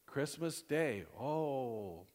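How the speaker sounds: put-on dismay with a long falling oh; bad-news sympathy. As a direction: commiserate over the awful news. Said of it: "either for good or bad".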